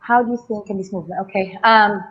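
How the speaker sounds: talking while still catching breath; winded, breathless words between gasps. Real, not acted. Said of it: "I'm catching my breath".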